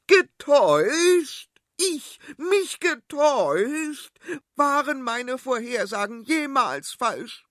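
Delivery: very high, loud, outraged; queen outraged at her husband, high and loud; indignant queen. Acted. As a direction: drag out the offended words, high and loud.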